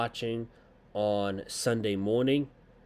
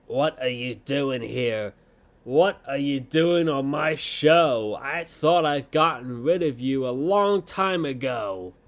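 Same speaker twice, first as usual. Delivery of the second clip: mock confrontational wrestler, building louder; put-on weird promo voice; 4 dB louder than usual. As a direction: imitate cringe promo acting, getting more worked up. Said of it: "a fucking weird voice".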